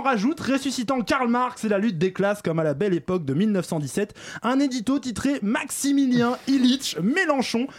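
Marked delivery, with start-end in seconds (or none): 4.4-7.7 pompous announcing. Acted.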